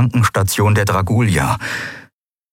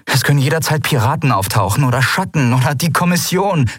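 put-on higher anxious young woman's voice; Andriel worried; 9 semitones higher than usual. Andriel to Kai, listing threats, raised anxious voice. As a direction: rattle off the dangers, worried and raised.

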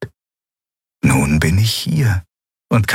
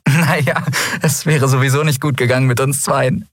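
lightly amused, raised voice; laughing; 6 semitones higher than usual. A narrator's reading. Endriel jokes about her rejected proposal, laughing lightly. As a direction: shrug it off with a little laugh. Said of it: "sagte sie lachend".

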